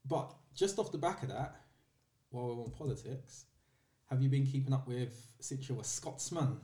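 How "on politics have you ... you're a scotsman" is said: bad Scottish accent. Shown as a demonstration. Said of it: "That was a really bad accent".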